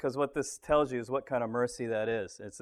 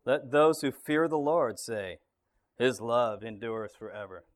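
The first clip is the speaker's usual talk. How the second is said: measured, emphatic scripture reading; declaring a psalm refrain, each line settling at the end; scripture read aloud. Acted. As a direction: read the psalm out to the group, stretching each call. Reads psalm aloud to group.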